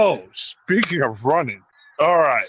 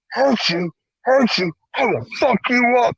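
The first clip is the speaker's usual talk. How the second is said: high, worked-up mock threat; retold threat; 10 semitones higher than usual. Guard to pleading shoplifter, re-enacted angry threat. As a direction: throw the plea back as menace.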